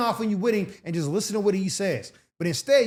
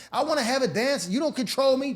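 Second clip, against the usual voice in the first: put-on stubborn girlfriend; 5 semitones higher than usual. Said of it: "you're always trying to".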